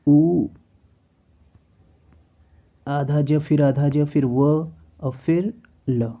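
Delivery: slow letter-by-letter spelling; dictating letters slowly. Shown as a demonstration. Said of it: "इस तरह से होगा उज्ज्वल".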